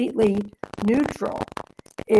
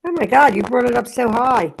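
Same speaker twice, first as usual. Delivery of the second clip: startled; 2 semitones higher, 5 dB louder than usual. Real, not acted. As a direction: jump at an unexpected noise. Startled by sudden loud sound.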